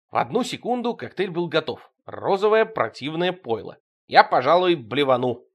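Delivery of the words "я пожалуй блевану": exaggeratedly cheerful. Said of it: "преувеличенно бодро проговорил Серёга".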